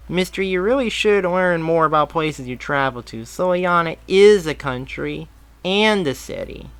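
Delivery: put-on high, bright kid voice; young boy. A narrator's reading. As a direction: play an eager little boy. Boy lectures Barry.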